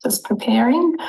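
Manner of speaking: breathy off-mic whisper before going live. Real, not acted. Guest whispering to the host before the stream starts. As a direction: hush it so the stream won't catch it.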